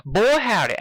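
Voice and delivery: high, loud southern twang; Applejack's southern howdy; country exclaim. Acted. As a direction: pitch up and holler like a farm girl. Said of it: "Applejack exclaimed".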